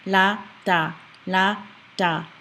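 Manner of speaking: "la, da" placed carefully, one by one; slightly exaggerated articulation. Shown as a demonstration. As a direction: lightly exaggerate the tongue in "la, da". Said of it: "even exaggerate it a little bit".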